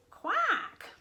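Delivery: high, loud single quack; duck quack. Acted. Ducks respond to mouse's clues, high loud quack. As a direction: give one big duck quack. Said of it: "said the ducks".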